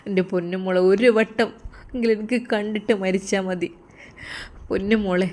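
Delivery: put-on a touch of tearful longing for his girl; mild crying lament. Sinan to his friend, grieving for his love, mildly tearful. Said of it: "Sinan ഒരു ഭ്രാന്തനെ പോലെ കരയുകയാണ്".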